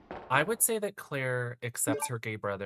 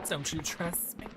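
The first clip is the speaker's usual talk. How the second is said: higher sinister question; creepy villain voice; 6 semitones higher than usual. Retold or imitated. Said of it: "She sounds evil".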